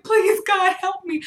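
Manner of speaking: high, loud mock begging; retold desperate plea. Praying as the bug keeps walking, mock desperation. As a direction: beg in comic panic.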